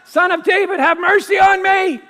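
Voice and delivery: loud desperate cry for mercy. Acted. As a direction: call out with all your voice, pleading. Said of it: "he began to cry out and say".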